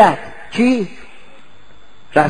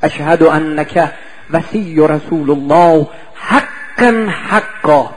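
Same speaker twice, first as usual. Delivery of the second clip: slow, with a catch of crying; tearful testimony; 3 semitones lower, slower than usual. Retold or imitated. Scholar bears witness to the Imam, slow and tearful. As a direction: draw it out, voice near tears. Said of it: "دو تا جمله گفت خیلی مهمه".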